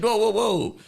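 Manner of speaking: hammed-up alarm over nuclear codes; mock panic. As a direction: yelp it like a spooked program. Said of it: "the program was trying to be like".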